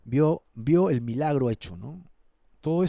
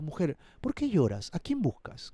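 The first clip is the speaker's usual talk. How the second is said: gently voiced questions, softening at the end; tender teacher. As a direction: ask tenderly, as a caring teacher. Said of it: "Mira qué tierno maestro".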